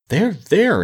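high-pitched placating interjection; interrupting. A narrator's reading. Scarecrow interrupts the quarrel, placating. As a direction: break in to calm them. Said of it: "interrupted the scarecrow".

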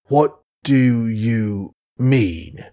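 very slow, choked, halting question; words barely come out of a shaken old man; struggling to speak. Acted. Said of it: "He found articulation somewhat difficult".

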